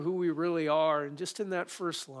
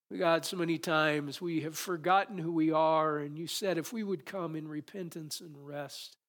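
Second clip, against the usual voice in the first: closing prayer. Acted.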